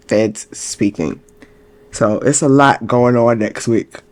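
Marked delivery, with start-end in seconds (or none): 1.9-4.0 talking through a yawn. Real, not acted. Host wrapping up next week's calendar, fighting a yawn. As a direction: push the words out around a rising yawn. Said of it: "Y'all, I cannot stop yawning".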